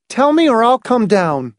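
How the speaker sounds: high, insistent ultimatum; resolute, urgent demand; decided threat. A narrator's reading. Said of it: "The decision was there in her voice".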